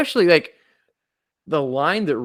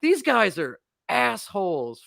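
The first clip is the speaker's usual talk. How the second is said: much higher, exaggerated contempt; exasperated Dracula; 11 semitones higher, slower than usual. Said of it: "And he's like".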